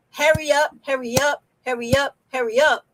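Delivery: a light imitation of people rushing you, hurry up chanted over and over; lightly voiced pushy locals nagging you along; mock impatient New Yorker.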